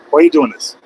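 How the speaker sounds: high, exasperated cry of disbelief. Real, not acted. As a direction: throw the question at him, baffled. Trucker yells at slow merging driver.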